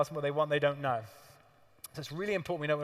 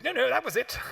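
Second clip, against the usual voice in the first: high, breezy refusal; mock high Q; 9 semitones higher, 4 dB louder than usual. Q breezily dismissing Greg's phone call, high. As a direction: toss it off airily.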